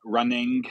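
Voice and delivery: "running" with the final G sounded; hard final G. Shown as a demonstration. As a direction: hit a hard G ending "running". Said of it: "words that end in G, they say it like".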